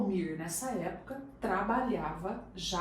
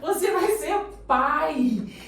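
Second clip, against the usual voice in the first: drawn out, louder, every word weighted; slow big announcement; 7 semitones higher, 10 dB louder, much slower than usual. Retold or imitated. Telling Almir he'll be a father, slow and solemn. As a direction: lay the news down slowly.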